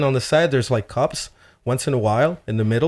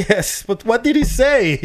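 exasperated insisting; 11 semitones higher, 4 dB louder than usual. Retold or imitated. Insisting on translation.

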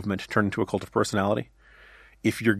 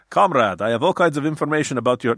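light, hammed-up Russian accent; a lightly voiced Russian agent, playing it for laughs; mock Russian accent; 2 semitones higher than usual. Pundit mocking a foreign offer, in a light Russian accent. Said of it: "this is my Russian accent".

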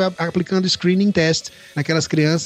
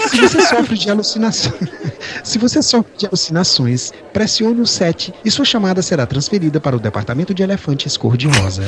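customer service voice. Retold or imitated. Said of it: "atende a secretária eletrônica dizendo".

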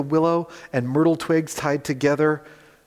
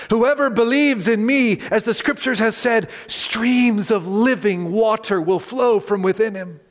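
loud proclamation; 5 semitones higher than usual. Acted. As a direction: announce it so every pilgrim hears. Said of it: "said in a loud voice".

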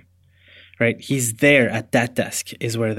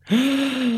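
sudden high gasp of shock; sharp gasp; 12 semitones higher than usual. Real, not acted. Listener gasps in shock at the twist. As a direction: gasp at the reveal.

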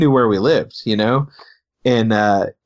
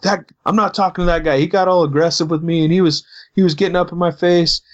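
higher-pitched imitation of an indignant complainer; mock accusing; 6 semitones higher than usual. Guy blaming the pastor before police, mock accusing. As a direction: imitate someone shifting blame, voice pitched up. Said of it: "started throwing it back on me".

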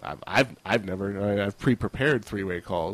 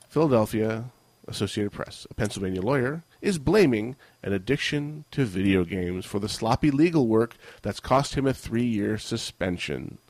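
news read. Acted. Reads news article.

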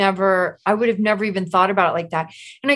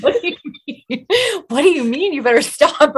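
higher, laughing, can't-believe-it question; baffled disbelief; 7 semitones higher, 4 dB louder than usual. Retold or imitated. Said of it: "I was like".

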